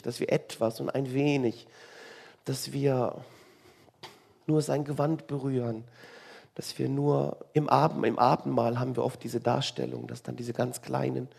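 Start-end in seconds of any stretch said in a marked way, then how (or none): none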